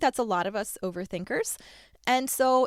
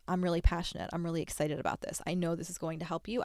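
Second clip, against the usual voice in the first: soft sincere quote; 3 semitones lower, 6 dB quieter than usual. Retold or imitated. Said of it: "coming from that place of".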